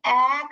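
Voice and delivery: ए as a long, open "aa" sound; isolated letter sound. Shown as a demonstration. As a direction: stretch ए out as a standalone vowel. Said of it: "करके हम sound देते हैं".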